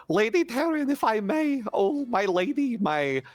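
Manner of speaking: high, swooping obsequious character voice; wheedling Nibbles, fawning. Acted. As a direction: flatter lavishly, drawing out the plea. Plays Nibbles wheedling Lady Taryn.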